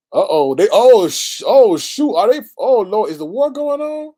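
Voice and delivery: high, loud startled exclamations; alarmed surprise. Real, not acted. Streamer spotting war news, high alarmed outbursts. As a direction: react as breaking news hits.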